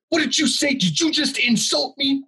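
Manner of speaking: very high-pitched mock outrage; imitating outraged customer. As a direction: squeal the offended question in mockery of him. Offended customer barrelling back, acted out.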